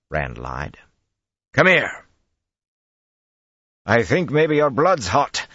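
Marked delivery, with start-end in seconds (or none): 1.5-2.0 high, loud summons; calling out. A narrator's reading. Rand summons the men from behind stonework, shouting. 3.8-5.5 slow, high, loud call. A narrator's reading. Flynn answers Rand from cover, calling loudly. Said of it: "Flynn's voice called".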